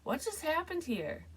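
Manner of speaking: put-on high, bewildered question to the girl; baffled question. Dreamer asking the girl what happened, high and bewildered. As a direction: ask it genuinely puzzled. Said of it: "asked the girl that".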